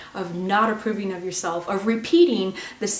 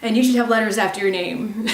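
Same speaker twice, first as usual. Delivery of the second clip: imitating a harsh inner critic; mock scolding; 3 semitones higher, 4 dB louder, faster than usual. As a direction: berate the little child, quick and sharp. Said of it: "Could you say".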